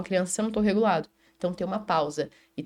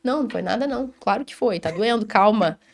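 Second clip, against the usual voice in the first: acalmando a criança; 3 dB louder than usual. Shown as a demonstration. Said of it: "você tá".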